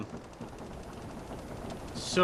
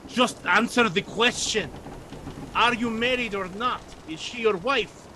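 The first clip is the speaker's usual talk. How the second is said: exasperated demand; 8 semitones higher than usual. Acted. First mate demanding an answer from the priest, exasperated. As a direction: lose patience and press him. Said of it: "he gets really frustrated".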